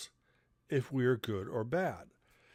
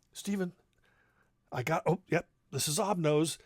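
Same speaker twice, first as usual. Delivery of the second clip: dad playing along; 4 semitones higher than usual. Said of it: "my dad would go".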